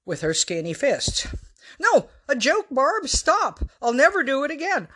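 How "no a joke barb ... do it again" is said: high, breathless pleading through laughter; high breathless giggling plea; breathless laughing plea. A narrator's reading. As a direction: beg her to stop while laughing. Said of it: "breathless with pain and laughter".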